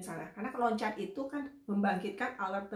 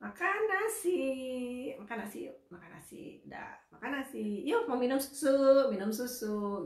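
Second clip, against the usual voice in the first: slow simple words; 3 semitones higher than usual. Shown as a demonstration. Therapist modelling slow simple words for a parent. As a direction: say each short phrase slowly and clearly. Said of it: "pelan-pelan, udah gitu ngomongnya tuh ya pasti-pasti aja".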